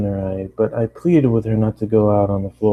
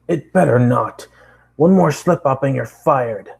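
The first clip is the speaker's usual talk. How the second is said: boss threat; 4 semitones higher, 4 dB louder than usual. Acted.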